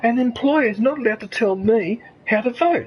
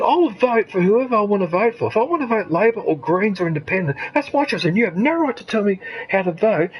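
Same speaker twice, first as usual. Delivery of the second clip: firm retold protest. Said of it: "I said".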